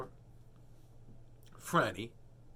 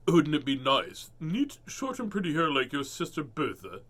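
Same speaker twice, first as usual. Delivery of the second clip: lightly voiced mother; 4 dB louder than usual. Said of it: "she asked".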